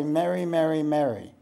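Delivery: "Mary, Mary, Mary" all three identical, with one vowel as in merry; Midwest pronunciation. Shown as a demonstration. Speaker showing how Midwest says three different words, identical "Mary" each time. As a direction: say each "Mary" exactly alike, Midwest style. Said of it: "in the Midwest in America, they say".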